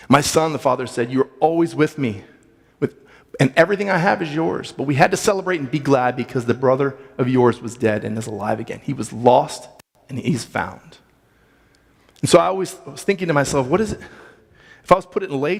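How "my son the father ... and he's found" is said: scripture reading. Acted. Reads the father's reply.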